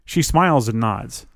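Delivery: usual speaking voice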